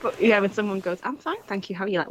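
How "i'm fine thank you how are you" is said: mock polite reply. Someone answering a casual greeting, mock polite. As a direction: imitate an over-literal answer to a hello.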